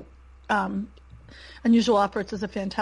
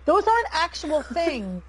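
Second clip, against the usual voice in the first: higher, slower, laughing through the quote; laughing mock retort; 7 semitones higher than usual. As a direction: scoff it out while breaking into a laugh. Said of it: "I'm being like".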